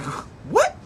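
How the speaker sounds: a high, disbelieving yell; incredulous shout. Retold or imitated. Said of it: "Mike's like".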